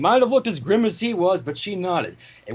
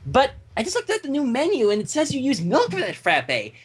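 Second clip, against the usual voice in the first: Pinkie voice; 4 semitones higher than usual. Acted.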